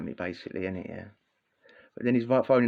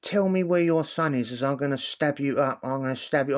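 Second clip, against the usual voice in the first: mock stepdad threat; 3 semitones higher than usual. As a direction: ham up the stepdad's stab threat. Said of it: "So he's phoning up your other nan".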